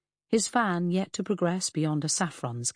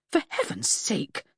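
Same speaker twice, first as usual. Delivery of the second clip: light disgust; 3 semitones higher than usual. Acted. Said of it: "Freddy said in disgust".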